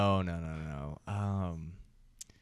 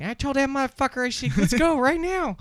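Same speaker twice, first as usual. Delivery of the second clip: squeaky, much higher and louder uncle impression; high-pitched voice; 8 dB louder than usual. Uncle picking a college football fight, squeaky high voice. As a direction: imitate a tough guy with a tiny squeaky voice. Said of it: "he had, like, a real high-pitched voice".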